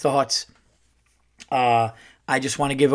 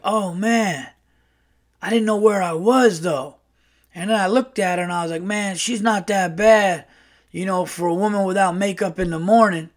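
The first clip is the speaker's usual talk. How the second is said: higher, lightly voiced brash uncle; Earl; 5 semitones higher than usual. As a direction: imitate a brash guy weighing up last night's mistake. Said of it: "like, a very brash uncle".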